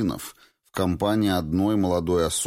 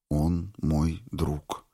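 Clifford repeating her words to Valentina, slow and thoughtful; much slower than usual. A narrator's reading. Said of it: "повторил Клиффорд".

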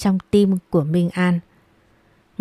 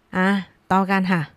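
mock roar. Cruel stepmother to her stepdaughter, slow menacing snarl. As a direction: drag it out like a cruel threat. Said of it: "Bà ta gầm lên".

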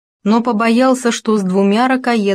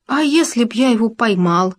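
higher scolding "а если б я его поймал"; a hint of a grumbling hamster; indignant outburst; 4 semitones higher than usual. A narrator's reading. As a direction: make a fuss, stressing "если". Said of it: "расшумелся Хома".

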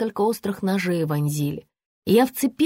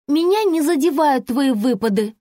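higher, louder haughty retort; proud; 5 semitones higher, 4 dB louder than usual. A narrator's reading. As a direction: lift the chin and declare it. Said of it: "гордо заявила Регина". (гордо, с вызовом)

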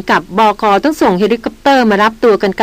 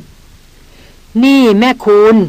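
slow, stretched words with a chuckle; ลากเสียงยาวพร้อมหัวเราะ; drawn out with a laugh; much slower than usual. A narrator's reading. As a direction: drag it out, laughing at her. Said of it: "ลากเสียงมาพร้อมกับหัวเราะ".

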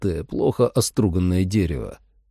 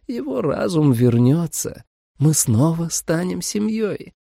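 sweet vampire mother; 9 semitones higher than usual. A narrator's reading. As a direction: lull the girl with fake tenderness.

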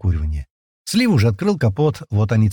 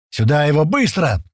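higher, urgent command; urgent order; 4 semitones higher than usual. Acted. Senior man orders Паштет brought over, urgently. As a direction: order them to hurry. Leader barks orders in emergency.

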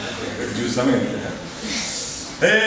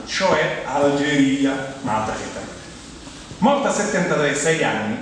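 biography reading; slower than usual. Acted. Reads out a biography to audience.

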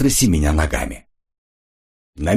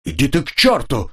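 a higher, narrated yell; заорав; 7 semitones higher than usual. A narrator's reading. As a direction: tell him off with a shout. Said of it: "заорал Ренли".

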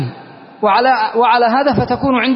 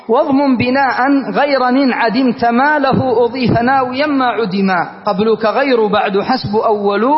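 verse recitation. Acted. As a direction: recite the lines in steady rhythm. Teacher recites verses of poem. (إنشاد متزن للأبيات)

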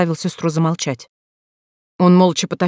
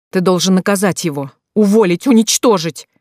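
angry demand; 2 semitones higher, 4 dB louder than usual. Acted. Sister demands revenge.

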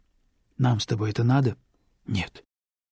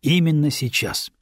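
firm; 4 semitones higher than usual. Acted. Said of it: "жёстко произнёс Бегорский".

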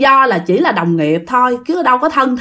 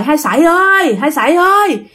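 calling out; 5 semitones higher than usual. Retold or imitated. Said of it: "mọi người mới kêu quá trời".

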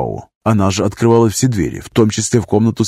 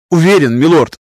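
high, loud, shaky certainty; quavering high reply; 6 semitones higher, 5 dB louder than usual. A narrator's reading. Master insists to lord, high and loud. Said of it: "master answers".

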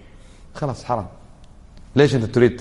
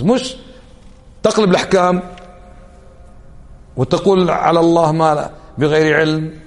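louder, slower, stern preacher's rebuke; raised rebuke; 3 semitones higher, 3 dB louder than usual. Real, not acted. Preacher rebuking people who speak without knowledge, loud and slow. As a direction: lean in and scold the congregation.

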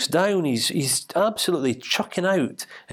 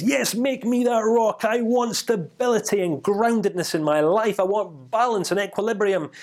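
pitched well higher, eager and pleading; eager wish; 6 semitones higher than usual. Acted. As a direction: beg the genie for it. Rain cloud voiced making a wish.

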